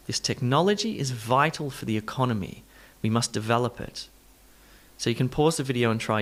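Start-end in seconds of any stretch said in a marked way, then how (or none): 0.1-4.1 technology, vital, economy, develop: stressed syllables stand out; clear word stress. Shown as a demonstration. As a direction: lean on NOL, VI, CON, VEL in technology, vital, economy, develop. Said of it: "stressed syllable is slightly louder".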